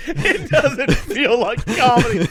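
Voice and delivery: giggling through the words; laughing. Real, not acted. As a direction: laugh while saying it. Repeating the line while laughing.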